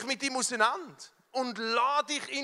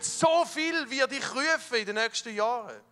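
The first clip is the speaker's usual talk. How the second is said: God's proclamation; 4 semitones higher than usual. Retold or imitated. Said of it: "Und er hat gesagt".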